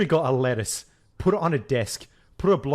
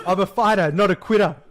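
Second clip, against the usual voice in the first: louder, higher mock British politician accent; corrected British accent; 6 semitones higher, 6 dB louder than usual. Co-host retrying the Prime Minister's line, mock British accent. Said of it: "No, that's, that's an Irish accent".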